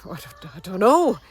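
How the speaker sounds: imitated French bus man; mock French accent, unhelpful shrug in the voice; French-accented don't-know, last word punched loud. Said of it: "in his French accent".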